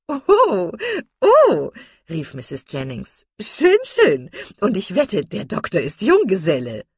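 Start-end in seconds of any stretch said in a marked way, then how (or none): 0.1-1.7 very high, loud teasing oh-oh; delighted exclamation. A narrator's reading. Mrs Jennings teasing Miss Steele, high gleeful crowing. 3.4-6.8 high, loud, knowing tease; teasing matron. A narrator's reading. Mrs Jennings teasing about the bachelor doctor, loud and knowing.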